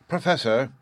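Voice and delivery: sudden loud call, pitch up; abrupt loud address. A narrator's reading. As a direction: snap the name out loudly. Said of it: "so loudly and suddenly".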